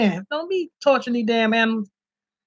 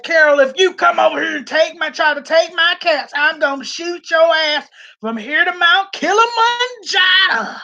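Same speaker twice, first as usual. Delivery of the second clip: mock threat; 3 semitones higher than usual.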